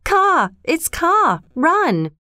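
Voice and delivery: monkeys scream in panic as Kaa strikes; panicked monkey cries. A narrator's reading. Fleeing monkeys shriek Kaa's name in terror. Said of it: "with cries of".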